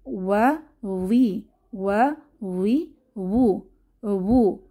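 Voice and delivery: slow ওয়া উই with both lips rounded; rounded-lip waw. Shown as a demonstration. Teacher slows down so students hear the waw, drawn out. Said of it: "একটু খেয়াল করি".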